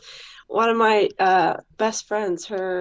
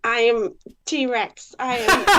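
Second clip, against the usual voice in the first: attempted T-Rex voice; 2 semitones higher, 3 dB louder than usual. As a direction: give the T-Rex a go, then break. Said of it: "And go".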